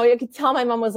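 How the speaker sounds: usual speaking voice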